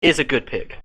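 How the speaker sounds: slow, put-on player accent; Batase's accent. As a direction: mimic a teammate's accent slowly. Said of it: "E L T P's best accent".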